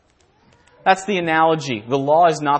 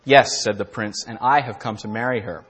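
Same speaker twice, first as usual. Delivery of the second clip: storybook reading, measured and gentle; story narration; 3 semitones lower than usual. Acted. Preacher reading his parable as a storybook tale. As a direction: read the fairy tale to the congregation.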